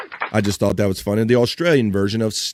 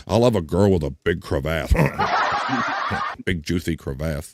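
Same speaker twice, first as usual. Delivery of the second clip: laughing; 7 semitones lower, 4 dB quieter than usual. Real, not acted. Reading joke while laughing.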